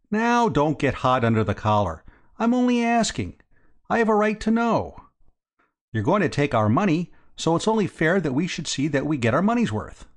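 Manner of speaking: high-pitched, pushy insistence; suspicious businessman, insistent. A narrator's reading.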